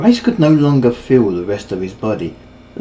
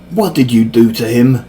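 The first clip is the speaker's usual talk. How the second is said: louder, pointed accusation; accusing; 5 dB louder than usual. Acted. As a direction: demand it as a charge. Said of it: "Mangloss accused".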